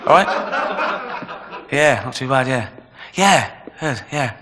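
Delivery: lightly voiced jittery victim greeting the killer; mock fawning, then a begging laugh; nervous intellectual. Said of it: "here comes Pol Pot".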